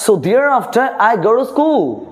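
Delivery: thereafter I go to school, each word slow and clear; slow careful teacher read; slow, careful dictation. Shown as a demonstration. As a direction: spell it out slowly for pupils. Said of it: "উচ্চারণটা সুন্দর করতে হবে".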